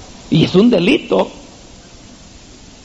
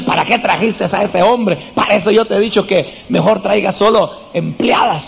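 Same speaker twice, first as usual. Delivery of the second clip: mock complaint to husband; 2 semitones higher than usual. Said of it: "empieza a decirle".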